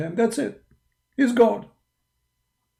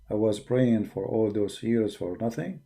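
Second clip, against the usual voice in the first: retold sad confession; 7 semitones lower, 8 dB quieter, slower than usual. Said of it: "He was really sad".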